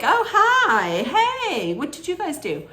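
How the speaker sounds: high, sugary mock-flirt greeting; flirty Brian imitation. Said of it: "he's all like".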